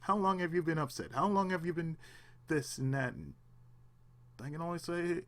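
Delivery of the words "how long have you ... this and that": anger pressing on. Retold or imitated. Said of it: "I can hear my anger just saying".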